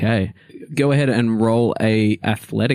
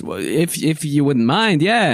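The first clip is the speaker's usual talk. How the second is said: timid gnome request; 5 semitones higher than usual. Acted. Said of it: "And the gnome says".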